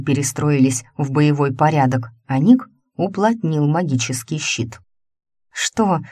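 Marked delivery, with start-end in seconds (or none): 5.5-6.0 slow, higher, grimacing disgust. A narrator's reading. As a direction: wrinkle your nose at it. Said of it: "сморщилась Ланка". (с отвращением, протяжно)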